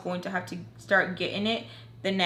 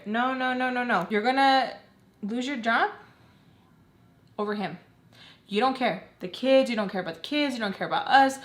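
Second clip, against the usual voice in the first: pleading lecture; 4 semitones higher than usual. Retold or imitated. Acts out her pleading lecture.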